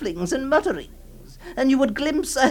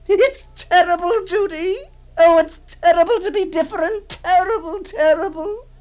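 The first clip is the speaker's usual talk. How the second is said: anguished; 6 dB louder than usual. Acted. Aunt's anguished outburst.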